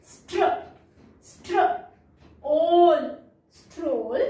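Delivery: "स्ट्र" twice, long "ओल", then "स्ट्रोल"; blend sounded out. Shown as a demonstration. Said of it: "ये again हमारा blend है".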